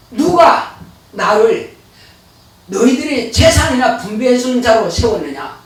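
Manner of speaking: solemn Jesus. Retold or imitated. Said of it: "예수님께서는 뭐라고 하시냐면은".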